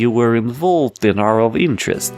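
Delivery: put-on a half-working Russian mobster accent; stereotypical Russian accent. Mister Big tells the lawyers he watches them, mock Russian accent. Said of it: "the accent's completely wrong".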